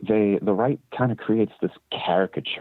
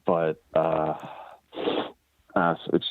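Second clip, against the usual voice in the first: talking through a bit of a cold; head cold. Real, not acted. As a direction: speak like you're getting over a cold. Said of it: "I have a bit of a cold".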